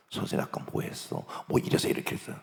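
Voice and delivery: low, hushed questioning; quiet questioning. Acted. Principal privately questions a teacher, quiet and grave. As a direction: take them aside and ask very softly. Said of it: "그 선생을 나중에 불러요".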